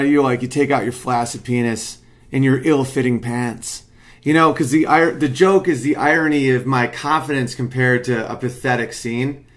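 ordinary delivery

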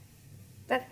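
tender, drawn-out declaration; sweet confession. Retold or imitated. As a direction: coo it slowly like a shy boyfriend. Partner's sweet confession quoted.

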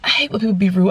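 lightly voiced sweet girl; sweet young girl. Young receptionist siding with the customer, mildly girlish. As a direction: imitate a young clerk, sympathetic. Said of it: "sweet little young girl".

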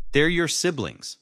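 high, loud, drawn-out plea; slow, emphatic appeal; pleading. A narrator's reading. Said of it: "Dad pleaded".

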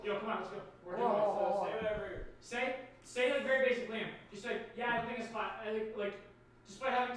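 hushed coaching; quietly. Real, not acted. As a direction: say it softly off mic. Coaching friend off mic.

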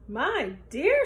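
a hint of an alarmed old wife; old woman crying out. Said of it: "she cried".

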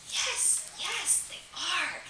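high-pitched, insistent affirmation; acted, high and emphatic yes. Answers whether prayers are answered.

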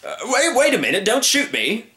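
high, frantic plea; panicked cry. Acted. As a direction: beg not to be shot. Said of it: "cried the man".

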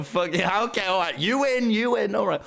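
imagined Tom Simons conceding. Retold or imitated. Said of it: "Tom Simons to go".

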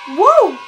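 high loud hoot; excited whoop. Acted. Vlogger cheering for her own channel. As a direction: let out a celebratory whoop. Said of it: "cheer for her channel".

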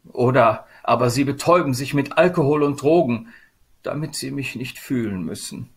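lightly voiced, aggrieved Sadness; plaintive Sadness. Figure of Sadness complains.

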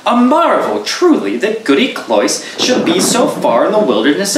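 surprised, eager to slip away; young man's startled voice. Acted.

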